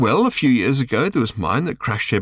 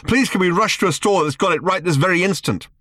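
higher, gushing fake thrill; mock excitement; 10 semitones higher, 3 dB louder than usual. A narrator's reading. Arthur mocking the new guide, faked excitement. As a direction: overplay the excitement sarcastically. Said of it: "incoherent with excitement".

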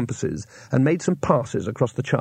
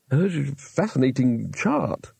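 breathless; slower than usual. Acted. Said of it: "said the astrologer breathlessly".

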